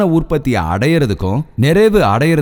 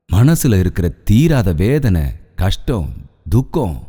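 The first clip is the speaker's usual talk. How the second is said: slow lament; 3 semitones lower, slower than usual. Acted. Preacher lamenting sorrows.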